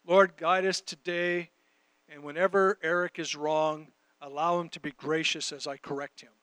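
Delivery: lightly imitated praying; mock prayer. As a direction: recite a workplace prayer, easing down in pitch and volume. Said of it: "we started work praying".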